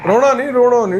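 real consoling, voice lifted; urgent soothing. Real, not acted. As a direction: gently urge someone to stop crying. Comforting man who starts crying.

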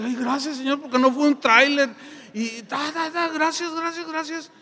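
loud, high, excited thanks; eufórico. Retold or imitated. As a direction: burst out in relieved gratitude. Agradecimiento eufórico tras el choque. (agradecimiento eufórico, alto y fuerte)

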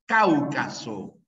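Cáucaso slowly, stress on CÁU; Cáucaso drawn out, first syllable strong; esdrújula stress. Shown as a demonstration. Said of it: "como esdrújula".

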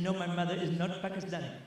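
put-on Pakistani accent. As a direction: answer in a mock Pakistani accent. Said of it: "you're talking with a Pakistani accent".

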